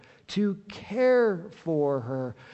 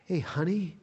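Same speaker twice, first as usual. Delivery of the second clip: tender term of endearment; 5 dB quieter than usual. Retold or imitated. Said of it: "we would use the term with our child".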